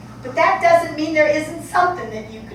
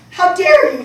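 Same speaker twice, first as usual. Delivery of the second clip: louder and higher, fury spilling over; furious repeat; 4 semitones higher, 12 dB louder than usual. Acted. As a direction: she hurls it at her daughter. Mother's angry outburst repeated.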